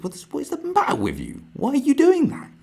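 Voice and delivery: high, loud exasperated yell; incredulous shout. Real, not acted. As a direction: rant in disbelief at her. Ranting at imagined woman.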